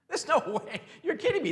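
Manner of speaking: laughing, half-mocking disbelief. Crowd laughing at the servant's promise, mocking disbelief. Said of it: "people probably started laughing".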